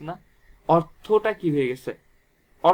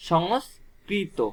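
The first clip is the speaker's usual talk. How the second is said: slow spelled-out word; 3 semitones higher, much slower than usual. Shown as a demonstration. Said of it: "সংস্কৃত থেকে কি হয়ে গেছে".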